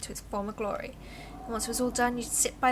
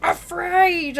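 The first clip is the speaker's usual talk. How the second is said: high yelped "Afraid!" like a fleeing animal; animal's yell; 8 semitones higher, 11 dB louder than usual. Retold or imitated. Wild animal yelling as it runs away, high loud yelp. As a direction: squeal "Afraid!" and bolt. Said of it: "they're just yelling".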